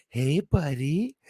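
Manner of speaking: high, slow cooing to a pet; talking to a cat. Acted. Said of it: "like I was talking to a cat".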